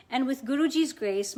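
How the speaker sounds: ordinary talk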